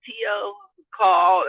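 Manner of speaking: high lilt on the name, then drop; teasing, knowing mock-mother delivery; insinuating mother. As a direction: imitate a mother's loaded hint, pitch jumping high on the name. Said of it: "Why are you saying it like that".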